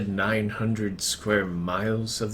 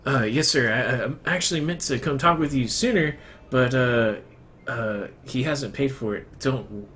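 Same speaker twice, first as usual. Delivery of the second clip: hunchback assistant; 3 semitones higher than usual. Acted. GM voices nervous servant.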